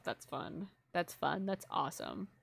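softly reading chat under her breath; quiet aside. Real, not acted. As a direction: mumble it half to yourself.

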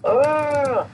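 high, slow goofy creature voice; dopey little creature voice; high silly creature. Acted.

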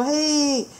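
proud careful father; sea dragon dad. Acted. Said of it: "然后海龙就说".

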